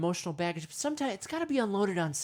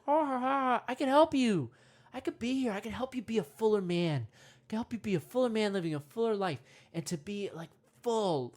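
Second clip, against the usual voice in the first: cackling monkey. Pretend. Monkey voice tempting the man.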